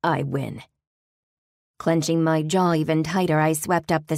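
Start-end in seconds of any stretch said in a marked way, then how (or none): 0.0-0.6 demon voice. Acted. Demon voiced, low and far.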